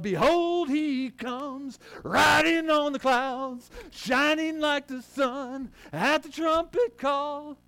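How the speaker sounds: very high, loud, slow proclamation that cracks; slow triumphant cry breaking high; squeaky shout. Real, not acted. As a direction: soar up until the voice squeaks. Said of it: "I kinda squeaked there".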